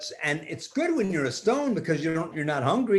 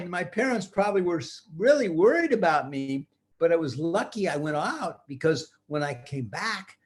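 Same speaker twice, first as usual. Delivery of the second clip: put-on little girl voice; 4 semitones higher than usual. Tina voiced high.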